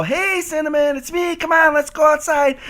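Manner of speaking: high, sweet call to a little dog; high pet-talk coaxing. Retold or imitated. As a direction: coax the dog out gently.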